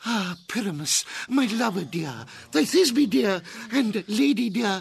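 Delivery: high, dainty lady voice; monstrous little voice. Acted. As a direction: squeak it like a tiny maiden. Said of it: "I'll speak in a monstrous little voice".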